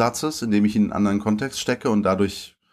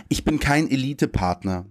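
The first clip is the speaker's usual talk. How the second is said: "Ich bin kein Elite-Partner" read slightly higher as a poem title, with stress on "kein"; poem title read aloud; 5 semitones higher than usual. Shown as a demonstration. Poet opens his reading with the title "Ich bin kein Elite-Partner". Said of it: "Und das Gedicht heißt".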